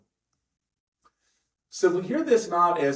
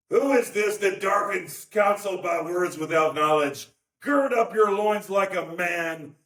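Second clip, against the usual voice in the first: stern, booming God; 5 semitones higher than usual. Shown as a demonstration. A pastor voicing an ominous God to the congregation, booming. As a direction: read it as a harsh God putting him down. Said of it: "I didn't plan to do this".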